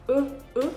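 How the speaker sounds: e repeated alone; isolated schwa sound. Shown as a demonstration. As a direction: hold the bare e. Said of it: "we have je".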